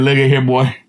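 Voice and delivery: a hint of a folksy father planning; God's plan. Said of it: "God said".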